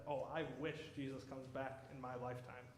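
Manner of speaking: softly voiced wistful queen, slightly low; Queen Victoria. Queen answers a sermon on the second coming, quietly wishful. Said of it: "you know what Queen Victoria said?".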